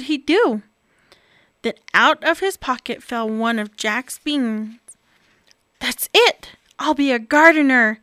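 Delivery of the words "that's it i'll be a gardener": decisive. Acted. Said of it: "Bob decided".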